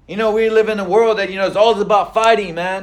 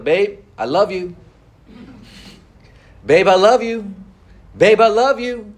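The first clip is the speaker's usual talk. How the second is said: wife soothing. Retold or imitated. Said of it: "she's like".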